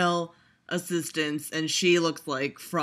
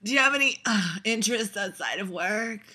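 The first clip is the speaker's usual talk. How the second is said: mocking repeat; 3 semitones higher than usual. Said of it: "Like, fuck you, Dakota Johnson".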